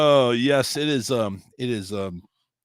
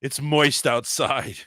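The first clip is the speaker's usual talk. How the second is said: slow, laughing delivery; slowed, giggly tease; slower than usual. Pretend. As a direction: savour the word through a laugh. Joking with the dirty word.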